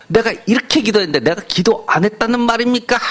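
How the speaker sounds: imitating an offended believer snapping back, only lightly; angry retort. A church member bristling at the pastor, mild mock anger. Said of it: "버럭 화를 내면서".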